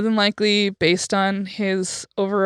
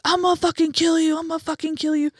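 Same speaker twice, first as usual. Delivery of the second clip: high, raised threat in another voice; menacing threat; 9 semitones higher, faster than usual. Retold or imitated. Drunk man threatening deaf man at bar, high menacing voice. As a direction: threaten him like a drunk stranger.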